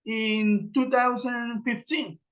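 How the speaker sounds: slow, careful example answer; a teacher's slow example answer; slow model answer. Shown as a demonstration. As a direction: spell out the answer for learners. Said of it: "yo puedo responder algo como".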